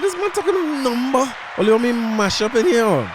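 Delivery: hammed-up threat to make a scene; jealous husband's high mock rage; mock jealous outburst. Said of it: "all hell could break loose".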